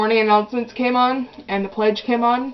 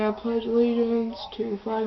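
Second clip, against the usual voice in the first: quiet mumble; 7 dB quieter than usual. Retold or imitated. Embarrassed girl reciting beside her mom, quiet. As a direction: pledge said much softer. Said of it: "I just stood up and I'm going".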